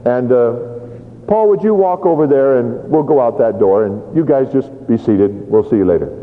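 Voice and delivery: mock-polite and overly calm, not force; a comically genteel commander. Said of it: "the commander walked in there and say".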